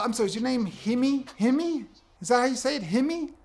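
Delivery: "Himmy" with a breathed h in place of Jimmy's j; puzzled, apologetic botching of Jimmy as "Himmy"; mock mispronunciation. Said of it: "Don't pronounce it the way you think".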